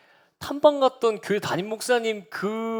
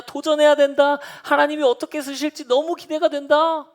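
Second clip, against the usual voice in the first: higher, louder ringing proclamation; proclaiming; 9 semitones higher, 5 dB louder than usual. Retold or imitated. Visiting pastor proclaims the church's future to the table, loud. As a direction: proclaim it like a preacher at full stretch. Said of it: "막 선포하시는 거예요".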